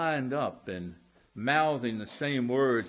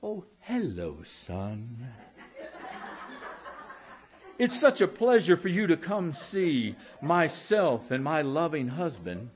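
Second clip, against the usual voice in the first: sugary mother. Retold or imitated. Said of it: "and you hear them say".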